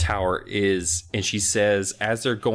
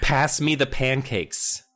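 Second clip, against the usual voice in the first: mock Cockney; 4 semitones higher, slower than usual. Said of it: "common Cockney rhyming slang".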